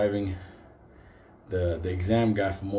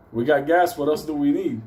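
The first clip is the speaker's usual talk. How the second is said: louder, higher cocky comeback; cocky retort; 3 semitones higher, 5 dB louder than usual. Retold or imitated. Student driver answers the examiner's checklist, cocky. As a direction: toss it back at the examiner.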